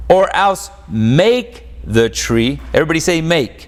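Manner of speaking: ordinary talk, nothing marked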